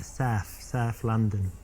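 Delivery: broad South London vowels, South said like "Saf"; strong South London accent. Shown as a demonstration. Showing a date how South London locals talk, strong local accent. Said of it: "they have a strong accent there".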